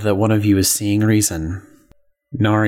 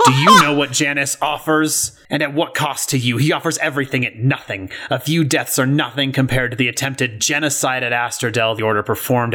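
raised, zealous villain rant; 4 semitones higher, faster than usual. Acted. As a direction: preach it like a fanatic monster. Tyrio's angry outburst.

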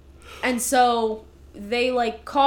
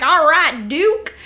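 quoting a dwarf; 4 semitones higher, 10 dB louder, slower than usual. Retold or imitated. Quoting Cletus's reply.

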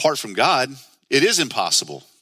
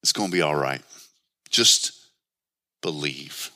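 gentle reassurance; 9 semitones lower than usual. Retold or imitated. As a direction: reassure him, dropping to a hush on the last word. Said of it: "pats him on the back".

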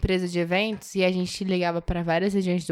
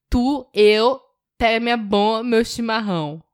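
a slow, louder jumble of mineiro, carioca and gaúcho Brazilian accents; mixed Brazilian accents; 4 dB louder, much slower than usual. Shown as a demonstration. Answering the challenge to mix Brazilian accents in one sentence, slow and louder. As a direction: drag it out in a mash of Brazilian regional accents. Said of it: "Será que a gente consegue misturar mineiro".

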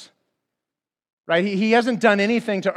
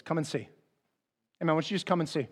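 gentle invitation; 2 semitones lower, 10 dB quieter, much faster than usual. Retold or imitated. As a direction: coax a friend, softly and simply. Philip gently invites his doubting friend.

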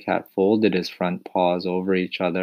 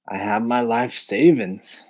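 pathetic voice; 5 semitones higher than usual. Acted. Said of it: "he said in a pathetic voice".

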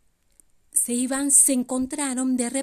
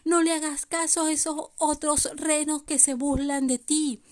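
súplica algo aguda de padres afligidos; padres tristes; 3 semitones higher than usual. Acted. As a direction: ruega con una leve tristeza actuada. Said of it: "se pusieron muy tristes y le decían". (padres tristes suplicando)

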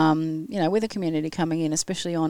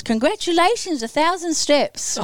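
robotic watch voice; 11 semitones higher than usual. Retold or imitated. Reading watch message in mock voice.

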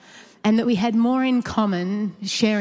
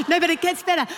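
high and giggly, pushing on; laughing while talking; 10 semitones higher, faster than usual. Real, not acted. Telling the listeners there's more, still laughing. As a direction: laugh through it and keep going.

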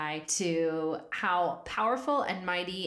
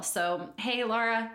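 usual speaking voice

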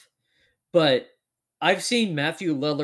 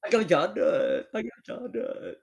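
singsong movie-line imitation, pitched up; jar of dirt quote; 5 semitones higher than usual. Quoting the film line for a co-host's joke, mock singsong taunt. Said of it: "He should have done the".

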